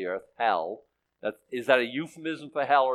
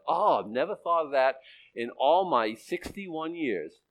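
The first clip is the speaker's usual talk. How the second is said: sarcastic. Retold or imitated. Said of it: "acting sarcastic".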